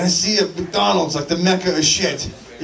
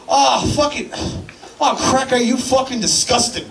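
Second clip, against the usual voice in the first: put-on disgusted old man; 5 semitones higher than usual. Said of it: "throws his hands up in the air and goes".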